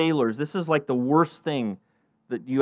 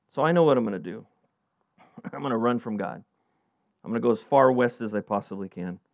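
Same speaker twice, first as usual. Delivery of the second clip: lower, softer, conspiratorial Jonah; sly quiet plan; 5 semitones lower, 5 dB quieter than usual. Acted. Jonah quietly deciding to run from God. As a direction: murmur the escape plan with a chuckle.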